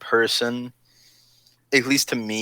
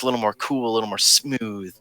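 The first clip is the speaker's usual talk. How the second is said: smooth high-society voice. Shown as a demonstration. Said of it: "he talks a little more like this".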